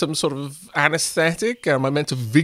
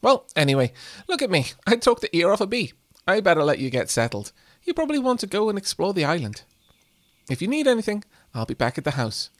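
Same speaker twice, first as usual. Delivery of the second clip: doting grandma voice; 2 semitones higher than usual. Acted. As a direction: gush over the grandson like a lightly voiced nana. Reads Grandma character's dialogue.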